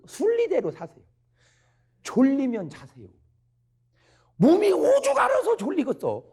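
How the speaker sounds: high, pleading exhortation; impassioned preaching. Real, not acted. Preacher begging listeners to sleep when tired, impassioned.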